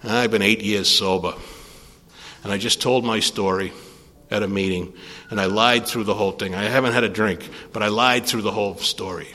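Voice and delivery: low, subdued caller admitting a lie; retold confession. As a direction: imitate a downcast confession over the phone.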